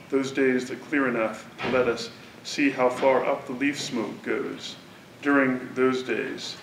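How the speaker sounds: slow, measured reading of the verse; poem reading. Acted. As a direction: let each line settle before the next. Reads the poem aloud.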